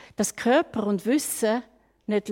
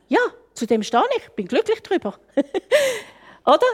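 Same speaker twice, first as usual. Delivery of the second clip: laughing; 8 semitones higher, faster than usual. Real, not acted. Laughs about being old.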